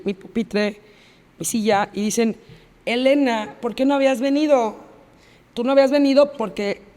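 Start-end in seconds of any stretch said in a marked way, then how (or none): 2.8-6.8 higher-pitched, imitated schoolyard taunt; mocking taunt. Classmates bullying her at her desk, mockingly. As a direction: needle her with a pointed question.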